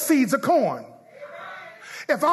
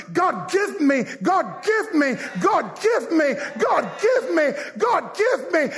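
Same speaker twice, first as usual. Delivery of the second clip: chanted, insistent plea climbing with each repeat; demanding churchgoer; 3 semitones higher than usual. Retold or imitated. Preacher mimics those who come to church only to get, demanding. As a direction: mimic a pestering, demanding prayer.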